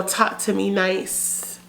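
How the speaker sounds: soft, slow and sweet; cutesy. Shown as a demonstration. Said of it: "if you wanna sound more cutesy, more innocent".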